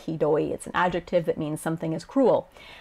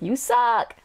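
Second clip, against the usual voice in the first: put-on pitched-up childish retort; indignant; 5 semitones higher than usual. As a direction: protest like an offended kid. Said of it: "yell in indignation".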